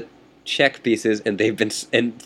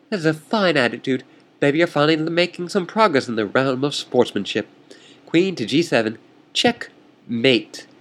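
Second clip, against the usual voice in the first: lightly voiced haughty opponent, pitched higher; smug chess rival; 3 semitones higher than usual. Chess rival taunting the player, lightly voiced and smug. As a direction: needle your opponent with mild mock arrogance.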